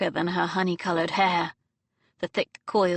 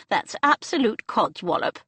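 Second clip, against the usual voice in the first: firm no-argument tone; 3 semitones higher than usual. Acted. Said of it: "in a tone that brooked no argument".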